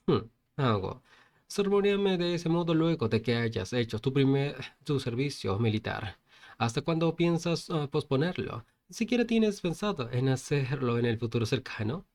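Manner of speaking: lightly sarcastic retort; mild sarcasm. Acted. Protagonist answering his mocking friend, mildly sarcastic. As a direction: needle him with pointed questions. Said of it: "le respondió con sarcasmo".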